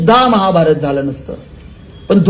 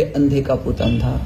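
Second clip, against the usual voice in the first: quieter, lower, slow recalled taunt; bitter remembering; 10 semitones lower, 7 dB quieter, slower than usual. A narrator's reading. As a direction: let the insult echo bitterly in memory. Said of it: "दुर्योधनाला शब्द आठवले". (दुर्योधनाला आठवलेला टोमणा, हळू आणि खालच्या आवाजात)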